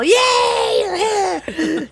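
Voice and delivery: high, loud laughing yay; gleeful child yell. Retold or imitated. Mother imitating the boy's happy yell, high and loud. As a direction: whoop like a delighted kid. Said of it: "and yell".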